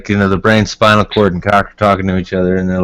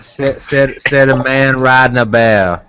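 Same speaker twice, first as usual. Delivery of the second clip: put-on Louisiana accent; 2 semitones higher than usual. Riffing to friends about bear loving, Louisiana Cajun accent. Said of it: "That Louisiana sounds pretty dead on".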